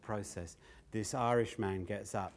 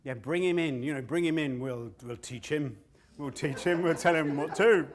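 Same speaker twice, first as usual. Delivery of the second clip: mocking self-important elders, rising to a laugh; smug elder; 6 dB louder than usual. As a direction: play the cocky old men showing off. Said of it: "and so he said".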